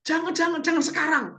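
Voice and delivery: high teasing "jangan" that means later; mock coy refusal. Preacher joking about tempted men, coy high mock voice. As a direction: pretend to say no while saying yes. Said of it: "bapak-bapak di sini ikut digoda juga".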